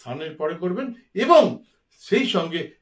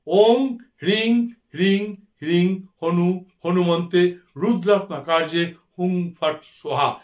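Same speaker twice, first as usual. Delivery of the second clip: mantra recitation. Acted.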